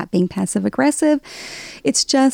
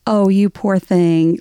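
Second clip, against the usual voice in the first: mock pity; slower than usual. Shown as a demonstration. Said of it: "it could also mean sort of like".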